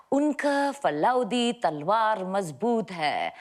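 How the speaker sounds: put-on slow, British-accented Hindi film line; hammed-up Hindi with a Britisher's accent; bad Hindi accent. Actor repeating dubbed dialogue fed from off camera, slow British-accented Hindi. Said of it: "a Britisher's bad Hindi accent".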